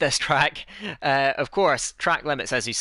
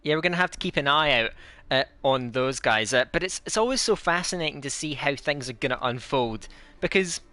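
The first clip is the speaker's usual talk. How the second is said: playful put-on Scottish accent; fake Scottish accent. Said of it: "me with my fake Scottish accent".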